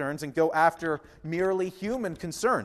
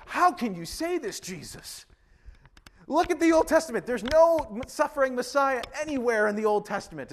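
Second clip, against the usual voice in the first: imitated indignant Peter; 6 semitones higher than usual. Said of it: "is what he would have said".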